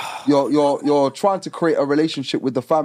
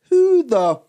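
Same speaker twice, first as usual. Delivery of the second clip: mock angry retort; 2 semitones higher than usual. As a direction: fire it back at the stepdad. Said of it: "I'm looking at him saying".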